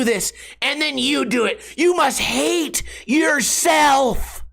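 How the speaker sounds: high, slow mock accusation; mock angry commenter. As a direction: ham up an outraged troll. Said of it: "So they go".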